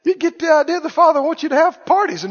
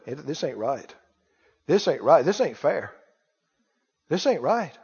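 low muttering grievance; 9 semitones lower, 6 dB quieter than usual. Acted. Devil's whisper voiced.

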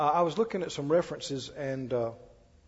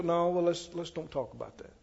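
gentle refusal; 5 dB quieter than usual. Retold or imitated. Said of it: "Don't have to be mean".

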